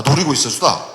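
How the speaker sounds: Jeju dialect ending on 있었수다. Shown as a demonstration. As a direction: switch to Jeju speech for 있었수다. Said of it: "제주도 말로 하겠다".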